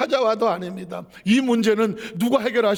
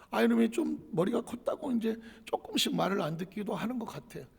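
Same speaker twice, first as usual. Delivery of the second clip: normal talking voice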